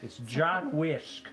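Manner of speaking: put-on slow, creaky old man voice. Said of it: "Not the old man voice".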